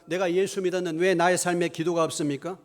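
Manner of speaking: ordinary delivery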